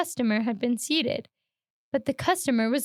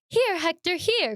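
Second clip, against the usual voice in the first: raised call to a dog; 6 semitones higher, slower than usual. Acted. Master calling his dog out of the shop, raised call. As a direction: call him back sharply. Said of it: "cried his master".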